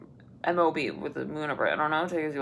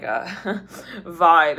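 ordinary talk

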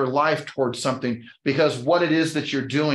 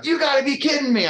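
much higher-pitched incredulous retort; mock disbelief; 10 semitones higher than usual. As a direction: act out someone who can't believe it. Retold reaction to his origins.

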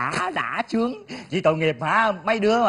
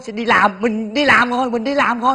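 higher, crowing sing-out about the new job; gleeful boasting; 4 semitones higher, 5 dB louder than usual. Acted. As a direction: crow with glee, pitched up. Gloats about new office job. (hớn hở khoe khoang)

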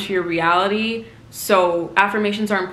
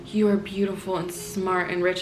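casual affirmation; 5 dB quieter than usual. Retold or imitated.

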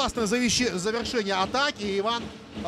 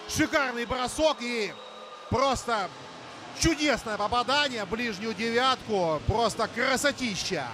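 excited; 4 semitones higher than usual. Real, not acted. Praising the goal just scored.

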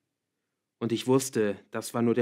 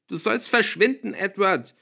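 high, loud screamed dismissal; furious yell; 10 semitones higher, 8 dB louder than usual. A narrator's reading. Girl slams door on her boyfriend, furious yell. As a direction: yell him out of the house. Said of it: "brüllte ich ihn an".

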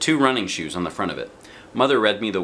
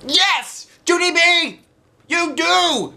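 high, loud frustrated teacher voice; teacher at the end of her rope; exasperated teacher; 6 dB louder, much slower than usual. A narrator's reading. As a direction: snap it out, fed up. Teacher throws her arms up.

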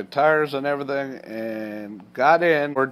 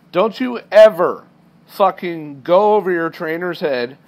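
mock angry yell at a trainee; retold yelling; 4 dB louder than usual. Dispatcher chewing out the trainee, angry yell. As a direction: bark it like a furious dispatcher. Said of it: "he yells at me in front of everybody".

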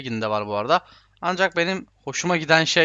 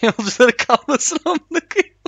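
laughing; 9 semitones higher, 5 dB louder than usual. Real, not acted. Laughing at the crash.

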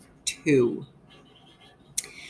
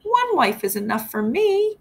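higher, louder panicked husband's yell; 7 semitones higher, 4 dB louder than usual. Acted. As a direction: yell it back at your angry wife, climbing on three. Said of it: "Mister Hacktack yelled".

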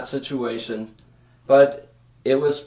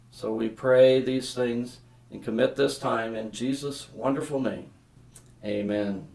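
prayer. Real, not acted. Leads a prayer.

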